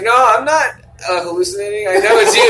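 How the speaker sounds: high, loud mock grandma; insistent grandmother. Deluded grandma insisting she knows him, high loud mock voice. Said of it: "And she's like".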